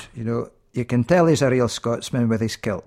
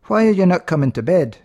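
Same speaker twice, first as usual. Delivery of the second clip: higher and louder, losing patience; impatient bride; 5 semitones higher, 4 dB louder, faster than usual. Acted. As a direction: demand an answer, fed up. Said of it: "she's beginning to lose patience".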